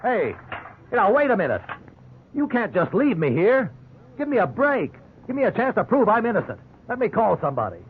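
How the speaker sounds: high, pleading protest from a cell; frantic plea to the detective; desperate pleading. Acted. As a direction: beg them not to leave you. Innocent man pleading from jail cell.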